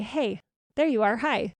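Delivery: light, friendly greeting as if to a friend; really friendly voice. Shown as a demonstration. Greeting her own reflection in the mirror, friendly and kind. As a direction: greet yourself like an old friend. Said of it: "in a really friendly voice".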